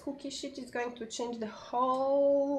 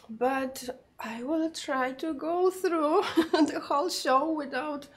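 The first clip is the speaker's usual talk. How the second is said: a short laugh breaking into slow words; laughing through words; 4 semitones higher, 3 dB louder than usual. Real, not acted. Host laughing at her own croaky voice on the live show. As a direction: chuckle while promising to get through.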